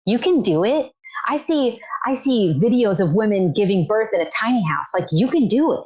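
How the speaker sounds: reassuring retold pep talk; sweet encouragement. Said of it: "she was so sweet".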